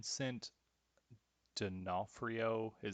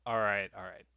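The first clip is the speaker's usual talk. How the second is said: whispering; 5 dB louder than usual. Real, not acted. Whispered to self.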